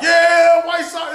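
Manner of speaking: high-pitched mock yell; imitated yelling. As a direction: imitate a rowdy fan yelling. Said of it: "That motherfucker started yelling".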